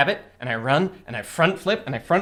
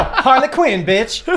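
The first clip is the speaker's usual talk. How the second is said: put-on semi-Southern accent; 6 semitones higher, slower than usual. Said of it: "Still semi-Southern".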